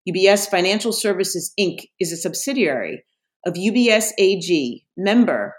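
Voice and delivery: brisk, even disclaimer read; fast legal disclaimer. Acted. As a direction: rattle off the legal fine print. Reads the podcast legal disclaimer.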